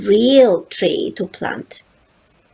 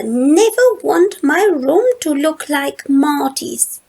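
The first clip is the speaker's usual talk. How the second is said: lightly voiced, higher little girl, very earnest; a small girl explaining her big decision; little sister Lola; 5 semitones higher than usual. Little sister Lola telling her big brother Charlie, lightly higher and earnest.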